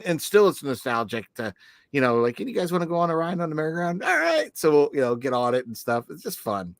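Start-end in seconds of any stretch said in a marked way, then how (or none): 2.4-4.0 fast, slightly higher invite; quick eager offer. Retold or imitated. Dad offering kids a merry-go-round ride, quick eager offer. 4.0-4.6 high-pitched gleeful agreement; excited kids' yes. Retold or imitated. Kids agreeing to a merry-go-round ride, excited high yes. Kids answering the carousel offer.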